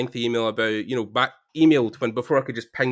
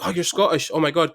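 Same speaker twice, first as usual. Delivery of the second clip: mild surprised delight; 5 semitones higher than usual. Retold or imitated. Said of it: "he was like".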